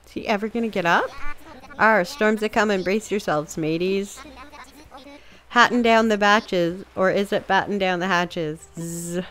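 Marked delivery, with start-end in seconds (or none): 1.8-9.2 lightly voiced grumpy pirate; a hint of a sleepy old sea dog; drowsy pirate grumbling about nap time. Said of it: "pirate sounds, et cetera".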